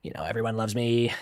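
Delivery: lightly mimicked actor recalling past roles; Roger. Voice actor bragging about his Sonic roles, lightly mimicked. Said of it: "compared to Roger, so, like".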